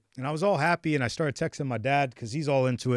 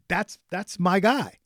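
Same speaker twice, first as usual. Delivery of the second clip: drawn-out, fond recognition; slow and fond; 4 semitones higher, slower than usual. Retold or imitated. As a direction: savour the words slowly, like greeting an old friend. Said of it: "And I'm like".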